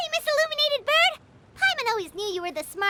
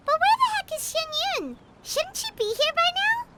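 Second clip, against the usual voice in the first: ill-tempered; 5 semitones higher than usual. Real, not acted. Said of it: "in such an ill-tempered tone".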